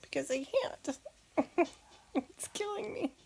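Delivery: half laughing, half crying confession; emotional, near tears. Real, not acted. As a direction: voice rising and breaking with emotion.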